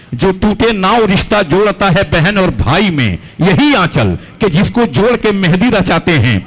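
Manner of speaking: rising stage recitation, building up; poem recitation. Acted. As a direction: recite to the crowd, growing stronger.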